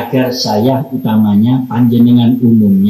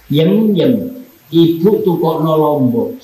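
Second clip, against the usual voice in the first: curt mother's call; 4 semitones higher than usual. Shown as a demonstration. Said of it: "Anaknya umpama namanya Tulkiem".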